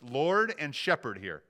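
"Lord" stretched and firm, "shepherd" set apart; stress on key words. Real, not acted. Pastor pointing to the sermon notes, stressing "Lord" and "shepherd". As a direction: weigh both "Lord" and "shepherd", slowly. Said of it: "emphasize the word Lord".

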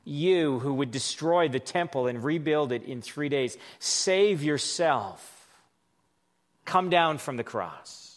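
slow, sneering sarcasm; mock him with sarcasm; a hint of sneering passers-by; sarcastic taunt. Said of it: "you can hear the sarcasm in their voice".

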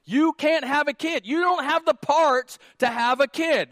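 emphatic mock reply; exasperated. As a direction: tell the dude flat out. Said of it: "I'm like".

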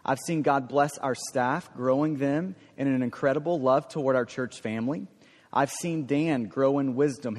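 measured read-aloud from written paragraphs; formal reading, phrases lifting at the ends; reading prepared remarks. Real, not acted. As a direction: read your written list of thanks to the congregation.

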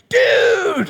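big high shout of recognition; excited shout. Retold or imitated. Man calling out to a crowd, excited shout. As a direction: yell it out like spotting a friend. John shouts on seeing Jesus.

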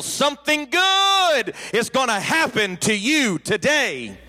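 a high, slow call of Something good is gonna happen to you today; preacher's yell. Retold or imitated. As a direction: call it out like a tent revival preacher. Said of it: "he would yell".

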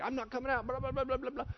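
stubborn demon. Retold or imitated. Sticky demon arguing with Jesus, mock stubborn. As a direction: dig in and refuse. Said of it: "He's like".

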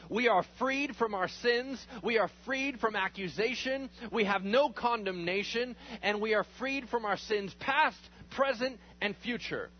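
fervent preaching build; preaching prayer, building. Real, not acted. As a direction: build up and proclaim freedom from sin.

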